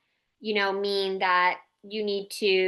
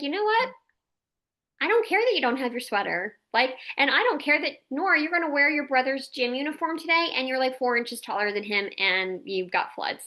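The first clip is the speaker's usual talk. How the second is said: calm letting-go mom; 4 semitones higher than usual. Retold or imitated. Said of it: "And then I'm like".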